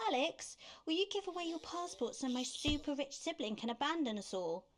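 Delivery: mocking demanding sibling. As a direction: put on a sweetly demanding sibling. Mocks a relative's demanding request.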